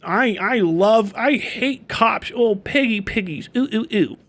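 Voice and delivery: slow, exaggerated mocking delivery; taunting, slowed-down parody; mock cop-hater. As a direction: draw it out like a silly protester. Mocking activists who show their hatred.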